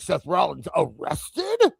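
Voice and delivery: slow, questioning AI narrator headline; drawn-out robotic clickbait read; AI channel voice. Retold or imitated. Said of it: "every A I channel in the world is gonna be like".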